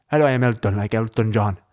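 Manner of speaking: lightly imitated accent, careful introduction; Elton's accent. Tech guy introducing himself, lightly imitated accent. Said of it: "I wish I had an accent like that".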